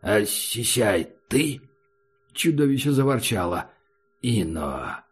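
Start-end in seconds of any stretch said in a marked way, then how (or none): 0.0-1.6 wary disbelief; cautious. A narrator's reading. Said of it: "осторожно сказал". 4.2-5.0 low, softer creature rumble; low growling clown; monster grumble. Acted.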